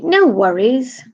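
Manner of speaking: mock-British lilt on "worries". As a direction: imitate a chirpy Brit, pitch lifted. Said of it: "they say".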